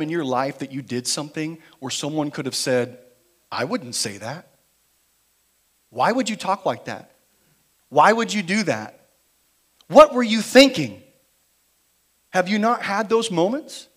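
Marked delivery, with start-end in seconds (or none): 3.5-11.0 imagined scolding. Retold or imitated. Imagined critic scolding the listener.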